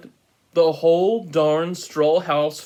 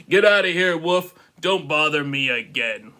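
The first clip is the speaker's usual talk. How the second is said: rude pig. Acted. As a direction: bark it at the wolf.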